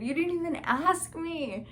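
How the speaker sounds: high-pitched, amused protest; indignant squeak. Retold or imitated. Teasing her boyfriend who forgot to ask, high and incredulous. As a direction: squeal it like he skipped the question. Retort to boyfriend mid-proposal.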